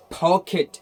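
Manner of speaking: "पॉकेट" slowly, ending in short "-khit"; correct ending. Shown as a demonstration. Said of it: "उसको खिट बनना". ("पॉकेट" धीरे, अंत में खिट)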